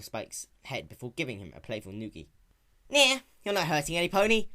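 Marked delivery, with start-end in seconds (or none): 2.9-4.5 raised, brash tomboy pony voice; lightly raised young heroine; Rainbow Dash voice. Acted. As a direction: play her sporty and cocky.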